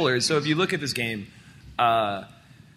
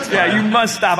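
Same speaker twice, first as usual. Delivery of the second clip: laughing, a bit calmer; incensed; 3 semitones higher, 4 dB louder than usual. Acted. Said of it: "I'm incensed".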